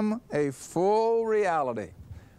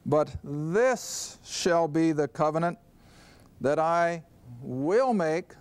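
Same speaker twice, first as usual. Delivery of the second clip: "will" held and weighted, slowed on "that I will make"; stress on will. Shown as a demonstration. Preacher stressing the future tense for the congregation, "will" leaned on. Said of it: "I'm emphasizing the verb tenses here".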